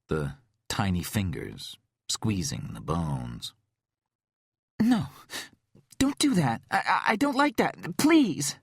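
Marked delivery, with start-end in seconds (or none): 4.8-8.6 high, loud, stammering plea; panicked pleading. Acted. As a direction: beg in rising panic. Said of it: "Her voice crackled with panic".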